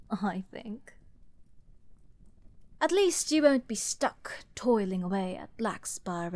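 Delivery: hushed, half to herself; sly whispered aside. Acted.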